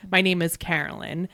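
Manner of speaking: Carolyn with flat A as in "cat"; own pronunciation. Shown as a demonstration. Explaining own name, flat-A pronunciation. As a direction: say Carolyn with a short open A. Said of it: "but I say".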